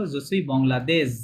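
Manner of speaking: Je suis বাংলাদেশ with the last syllable দেশ stretched longer; drawn out ending. Shown as a demonstration. Teacher showing how to lengthen the ending, drawn out. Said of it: "একটু বাড়ায় বলতে হবে".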